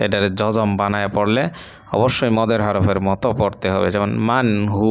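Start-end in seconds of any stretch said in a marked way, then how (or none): 4.3-4.9 মান হু with the ending cut short on a stop; ওয়াকফ stop on মান হু; stopping pronunciation. Shown as a demonstration. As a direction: stop on হু, no vowel after it. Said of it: "ওয়াকফ হলে এটার জজমের মতো পড়তে হবে".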